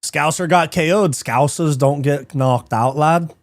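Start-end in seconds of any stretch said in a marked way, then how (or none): 1.1-3.3 put-on slow, drawn-out Liverpool accent; a Scouser's slow boast in a Liverpool accent. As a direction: lay on the Scouse, slowly. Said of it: "Not a bad accent".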